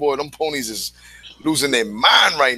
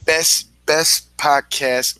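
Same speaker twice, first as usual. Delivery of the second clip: whispering; much slower than usual. Acted. Host hyping the podcast.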